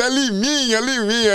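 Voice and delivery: high imitated call from the jury; jurors correcting. Laughing jurors correct the host on the nickname, high calling. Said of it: "o júri rindo".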